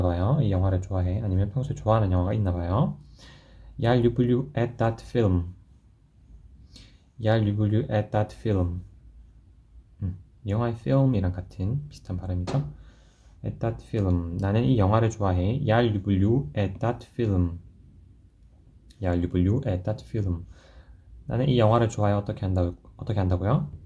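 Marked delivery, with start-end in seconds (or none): 3.8-8.8 slow model sentence. Shown as a demonstration. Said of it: "teacher models slow sentence". 15.6-20.4 slow model sentence. Shown as a demonstration. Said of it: "teacher models slow sentence".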